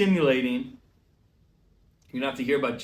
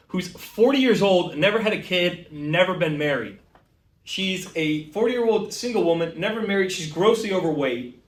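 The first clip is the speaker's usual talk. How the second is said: building rant; 3 semitones higher than usual. Acted. Building rant about Kathy.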